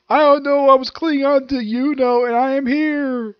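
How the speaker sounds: high, loud character voice; Charmy. Acted. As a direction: answer high and insistent, all confused. Acting out Charmy's confused answer.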